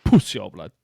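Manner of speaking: a hammed-up screeching falsetto; mock falsetto jeer.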